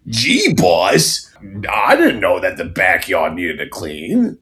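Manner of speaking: lightly voiced dopey henchman, rising on gee boss; a hint of a simple-minded sidekick. Henchman voice to his nagging wife, mildly put on. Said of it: "Stop with the voice".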